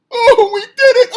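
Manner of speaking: high, loud, laughing squeal of triumph; mock gushing celebration. Mocking women wrestlers celebrating a win, gushing squeal. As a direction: ham up a giddy victory cheer. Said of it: "the women cry and they hug and they celebrate".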